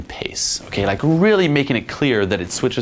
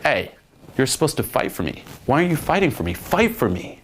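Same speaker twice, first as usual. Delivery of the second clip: higher-pitched mock indignation; playful; 5 semitones higher than usual. Shown as a demonstration. Coach showing how to flip the script on her, playful. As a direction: challenge them teasingly to chase. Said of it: "Playfully doing so".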